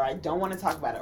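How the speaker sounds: low, restrained refusal; mock-calm restraint; controlled de-escalation. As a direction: decline calmly, keeping temper down. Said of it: "I'll try to implement things to make sure".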